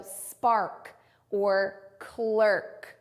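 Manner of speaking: "spark or clerk" very slow, each final k released; stressed final k. Shown as a demonstration. Teacher shows the K after bossy R, "spark or clerk" slow and over-articulated. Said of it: "then you have the K".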